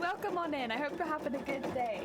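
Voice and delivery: bright, high welcome call; cheery welcome. Real, not acted. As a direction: greet viewers with a big hello. Cheery channel greeting.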